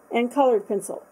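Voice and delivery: words through a yawn. Real, not acted. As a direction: say it mid-yawn. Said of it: "I yawned".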